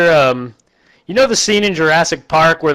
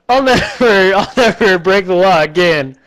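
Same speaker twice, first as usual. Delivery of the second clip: lightly voiced little girl; 4 semitones higher than usual. Little girl vows to reform.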